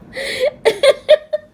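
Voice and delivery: high, loud burst of laughter; a real giggle that breaks out high. Real, not acted. Laughing at the movie line.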